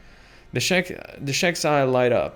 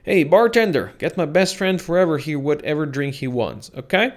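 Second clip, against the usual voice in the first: loud, high bellow to the bartender; booming call; 3 semitones higher, 5 dB louder than usual. Acted. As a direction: rumble the whole bar. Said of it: "voice that makes the very air rumble".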